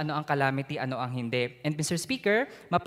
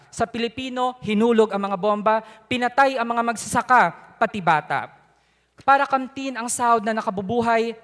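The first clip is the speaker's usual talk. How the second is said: poem recitation. Real, not acted. Youth legislator explaining a no vote to the Speaker in verse, declaimed poem. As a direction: declaim it in rhymed lines, punching the key words. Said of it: "To proceed to my poem".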